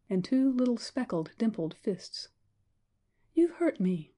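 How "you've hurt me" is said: a lightly voiced small child, hurt and reproachful. Little girl tells the man he hurt her, reproachful. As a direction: tell him off gently like a wounded little girl. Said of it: "said a childish voice, reproachfully".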